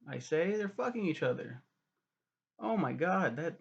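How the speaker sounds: high, hammed-up outrage over the reveal; sarcastic mock shock. Discovering the twins' incest, mock-scandalized high exclamations. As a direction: play the scandal up, tongue in cheek. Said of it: "being sarcastic".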